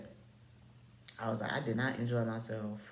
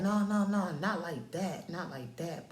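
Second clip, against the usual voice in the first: higher-pitched imitation of him protesting; hasty backpedaling; 6 semitones higher, 4 dB louder than usual. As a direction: backtrack urgently in a raised pitch. Voices him hastily backpedaling.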